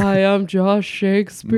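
grand theatrical actor voice; hammy stage actor. Pretend. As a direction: announce yourself like a ham actor. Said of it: "millennial thespian that we'd have on our show as a character".

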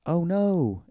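a quick hammed-up gasp of alarm; mock alarmed Oh no. Bray caught off guard on air, mock alarm. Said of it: "Bray was all like".

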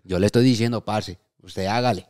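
put-on Colombian accent. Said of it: "practicando el colombiano".

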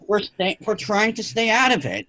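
high, heated cursing; angry outburst. Retold or imitated. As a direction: let the anger burst out. Venting at people who stayed away.

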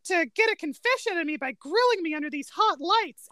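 acted-out complaint to his interrogators; sudden accusation. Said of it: "he suddenly goes".

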